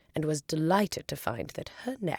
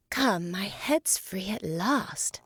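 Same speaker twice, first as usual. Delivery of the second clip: delighted; 3 semitones higher, slower than usual. Acted. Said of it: "said Alice in a tone of delight".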